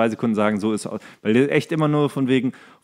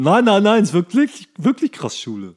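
mock insistence; 9 semitones higher, 5 dB louder than usual. Insists mockingly on the show title.

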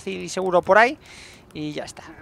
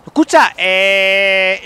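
drawn-out call; 6 dB louder, much slower than usual. Real, not acted. Drawn-out remark after fight.

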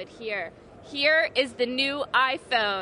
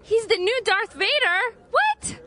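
mock shock; 8 semitones higher, 4 dB louder than usual.

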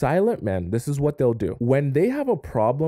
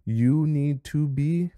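slow it down so they listen; slowed, drawn-out emphasis; slower than usual. Shown as a demonstration. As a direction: stretch each word slowly, rising at the end. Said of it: "listen to me".

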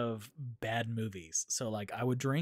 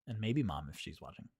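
whispering; 5 semitones lower, 5 dB quieter than usual. Real, not acted. Aside about Mom.

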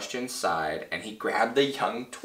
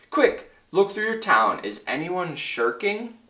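high, raised urgent call; calling back; 6 semitones higher, 3 dB louder than usual. Acted. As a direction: call out anxiously to the tiny town. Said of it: "Horton called back".

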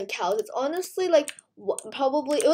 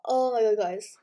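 whispering; 4 semitones lower than usual. Real, not acted. Stunned at new pet.

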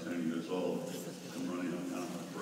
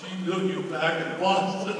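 louder, laughing delivery; laughing through it; 13 semitones higher, 12 dB louder than usual. Retold or imitated. Retelling young lady's remark, laughing. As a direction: giggle out the line.

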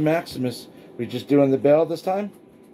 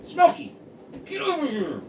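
calling from far away; 13 semitones higher than usual. Real, not acted. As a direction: yell the dog over from afar. Calling dog from distance.

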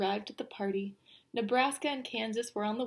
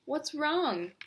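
higher, gentle question; kindly; 6 semitones higher than usual. A narrator's reading. Best friend Nebraska asks unhappy Kansas, kindly. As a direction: ask with kind concern, pitched up. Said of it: "his best friend Nebraska kindly asked him".

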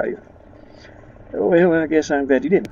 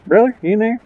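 higher and louder, calling into a tent; 9 semitones higher, 4 dB louder than usual. Real, not acted. Player calling into the tent for the brother. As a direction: call out to find your brother.

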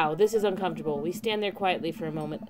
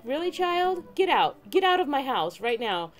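higher-pitched playful telling-off; mock parental scolding; 6 semitones higher than usual. Imagined parent sends child out for cookies, mock scolding. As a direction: order the kid out in pretend outrage. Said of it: "I'd be like".

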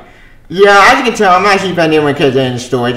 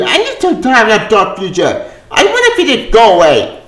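higher, laughing through the gripe; laughing complaint; 6 semitones higher than usual. Real, not acted. To viewers, laughing while begging the future to go away. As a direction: giggle at how sick of it you are.

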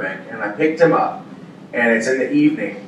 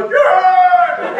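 gleeful yeah; 3 dB louder than usual. Retold or imitated. Sabat's gleeful reply.

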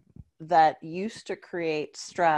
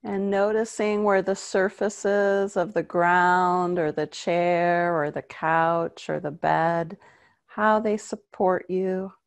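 guided meditation. Acted.

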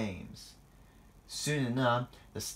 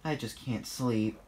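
sighing. Acted. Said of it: "sighed Thomas".

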